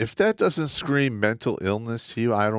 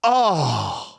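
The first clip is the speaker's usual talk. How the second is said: disgusted laughter; 6 semitones higher, 4 dB louder than usual. Real, not acted. Reacting to a disturbing photo.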